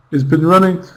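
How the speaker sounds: "been running" led in by a reduced he's with no H; H dropped. Shown as a demonstration. Teacher demonstrating fast speech, H dropped from he's. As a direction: drop the H and merge he's into "been". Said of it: "We might not even pronounce it".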